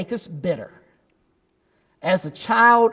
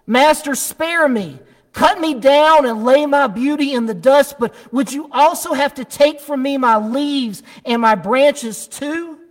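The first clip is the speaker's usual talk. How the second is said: 1 pleading; 5 semitones higher, 3 dB louder than usual. Acted. Bamboo begs master again.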